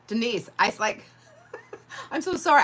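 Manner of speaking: high, loud apology through real laughter; laughing apology. Real, not acted. Apologizing to Denise while laughing at her burn. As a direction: apologize while you can't stop laughing. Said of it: "I'm not laughing that you got burnt".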